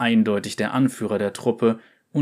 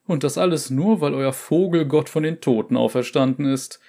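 mocking; 4 semitones higher than usual. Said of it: "machte sich ... lustig".

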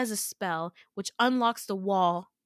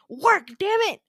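louder, higher, straining yell at the spell; frustrated yell; 11 semitones higher, 8 dB louder than usual. Retold or imitated. Willing the sun spell to come, frustrated yell. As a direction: force it out like it has to work.

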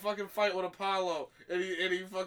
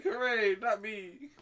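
higher-pitched mock hooray; playful raised-voice cheer; 4 semitones higher, 4 dB louder, slower than usual. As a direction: imitate a relieved little cheer. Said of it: "Ash is like".

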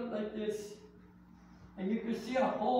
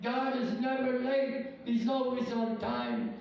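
slow chant that climbs higher each time; preaching refrain; 3 semitones higher, slower than usual. Acted. Pastor rallying the church with a slow rising chant. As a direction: drive the refrain home, rising.

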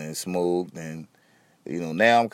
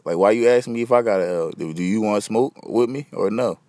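exasperated, louder, rising at the moocher; fed up, push back hard; annoyed; 4 dB louder than usual. Real, not acted. Fed up with friends asking for a lighter, annoyed.

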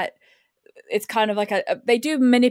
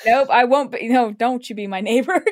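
mock refusal; 2 semitones higher, 6 dB louder than usual. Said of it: "It's like".

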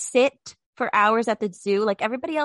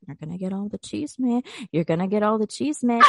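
mock pitch. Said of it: "We've been pitching this podcast like".

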